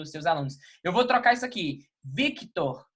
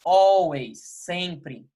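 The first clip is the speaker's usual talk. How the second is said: Snape's always; 4 dB louder, much slower than usual. Retold or imitated. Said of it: "o Dumbledore pergunta pra ele".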